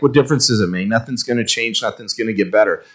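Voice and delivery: soft, resigned, giving up; defeatist. Retold or imitated. Pastor voicing the church's defeatist mood, soft and resigned. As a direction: sigh it like nothing matters. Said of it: "defeatist attitude".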